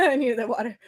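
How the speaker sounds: giggling through the words; laughing. Real, not acted. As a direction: laugh while speaking. Laughing after drinking.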